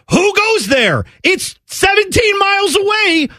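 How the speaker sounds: exaggerated outrage, shouted high; mock disbelief. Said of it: "they will look at New York like".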